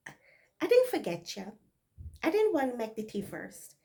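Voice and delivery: a hint of Barbados speech, jittery; Bajan accent. Maid nervously defending herself in Bajan dialect. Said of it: "this is Bajan dialect".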